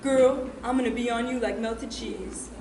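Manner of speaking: slow, cheesy pickup line; Caleb. Acted. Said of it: "he goes".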